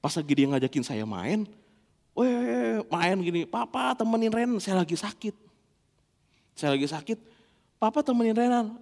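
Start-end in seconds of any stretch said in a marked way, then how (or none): 2.2-8.8 put-on child voice. Voices his little son.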